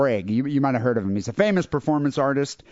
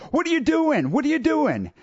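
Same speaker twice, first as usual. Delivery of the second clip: high, startled mock cry, much higher; imitating a panicked girlfriend, pitched way up; alarmed girlfriend; 13 semitones higher than usual.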